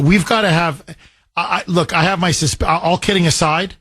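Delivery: normal talking voice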